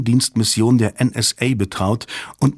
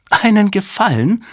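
much higher, louder indignant echo; indignant snort; 11 semitones higher, 4 dB louder than usual. A narrator's reading. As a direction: fling the words back at him in outrage. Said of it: "schnaubte Susan empört". (empört schnaubend)

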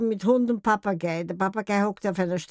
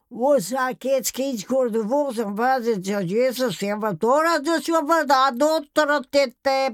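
parrot babbling; 4 semitones higher, 3 dB louder than usual. Retold or imitated. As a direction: prattle like a parrot in dialect. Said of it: "prappelte er vor sich hin".

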